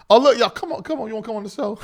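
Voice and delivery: loud, high call to come on over; calling a friend up to the mic, thrilled; excited calling out. Real, not acted. Host calling his old friend onto the show, excited and loud.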